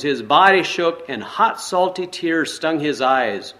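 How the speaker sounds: measured read-aloud storytelling voice; story narration. A narrator's reading. Pastor reading a forgiveness story to the congregation, storytelling narration. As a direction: read the tale steadily to the listeners.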